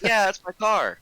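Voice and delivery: loud, high, exasperated answer; retold angry comeback; indignant retort. Indignant reply to the driver.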